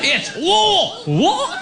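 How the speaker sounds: high shouted crowd correction; mocking crowd correction. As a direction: yell it back like an angry crowd. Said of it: "And I tried".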